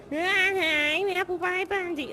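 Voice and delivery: drawn-out mock American impression; Apple Pie Bundy. Teacher mimicking the act that keeps interrupting the class, bad drawn-out impression. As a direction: stretch it out in a bad American accent. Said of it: "That's my best impression of him".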